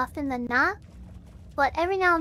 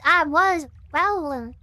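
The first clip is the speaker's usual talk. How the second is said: preacher; 5 dB louder, much slower than usual. Shown as a demonstration. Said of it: "preacher voice".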